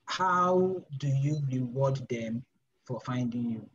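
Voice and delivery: slow, stretched-out question; slow, deliberate question. Shown as a demonstration. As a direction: lay each word down slowly. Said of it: "how do I explain this?".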